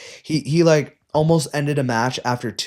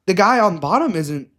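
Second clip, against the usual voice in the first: higher, louder, disbelieving; incredulous protest; 5 semitones higher, 4 dB louder than usual. Retold or imitated. Coach retells protesting the stall call to the ref. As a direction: push back in shock at the call.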